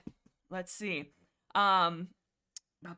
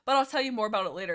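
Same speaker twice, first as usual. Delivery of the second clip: dismissive rush; 4 dB louder, much faster than usual. Retold or imitated. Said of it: "he'll follow up with".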